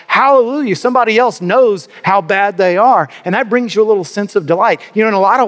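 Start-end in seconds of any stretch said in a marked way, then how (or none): 0.1-3.1 high, delighted cheer at the gossip; a bit of hammed-up gloating glee; gleeful hallelujah. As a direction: crow with mock delight. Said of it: "and you're like".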